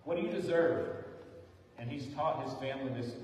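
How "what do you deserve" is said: raised, called-out question; dad hollering to his kids in the car, loud question; hollered question. Retold or imitated. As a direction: call it out like a dad to kids in the back seat. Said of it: "will holler out".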